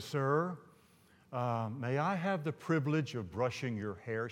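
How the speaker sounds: timid, softened acted voice; hushed, reluctant polite request; real soft request. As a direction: ask it softly and hesitantly. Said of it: "She says it real softly".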